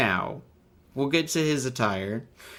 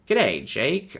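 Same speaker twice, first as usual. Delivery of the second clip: a tentative Australian greeting, slightly higher; attempted Australian accent; 4 semitones higher than usual. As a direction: try out a rough Australian accent. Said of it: "Do I know how to do Australian?".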